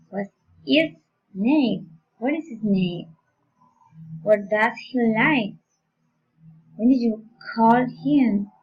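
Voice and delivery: special questions with a falling tune; falling question intonation. Shown as a demonstration. Teacher modelling special questions for learners, falling intonation. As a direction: let "name", "like" and "him" fall after the question peak. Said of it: "following intonation".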